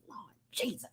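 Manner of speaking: breathy whispered exclamation under the breath; whispered aside. Real, not acted. Preacher catching himself off topic, whispered aside. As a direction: mutter it to yourself in a whisper.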